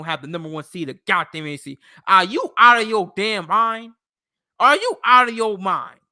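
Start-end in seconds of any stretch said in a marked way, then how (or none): 2.1-3.9 incredulous shout. Real, not acted. Ranting at Jets hype. 4.6-6.0 incredulous shout. Real, not acted. Ranting at Jets hype.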